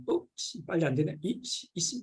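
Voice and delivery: mock annoyed grumble, short bursts; irritated muttering. Muttering to himself in mild mock irritation. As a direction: act out cursing at work that won't go right. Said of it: "뭐 이러면서".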